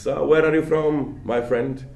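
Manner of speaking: lightly voiced friendly street vendor; a hint of a sly seller sizing you up; market seller. Lecturer voices a market seller greeting a tourist, lightly. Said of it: "there is this guy who says".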